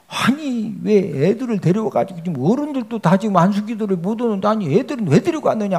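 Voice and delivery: mock scolding disciples. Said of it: "하고서 막 제자들이 꾸짖니".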